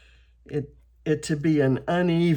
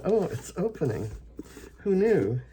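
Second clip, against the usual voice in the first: surprised; 5 semitones higher than usual. Real, not acted. Jar finally opens.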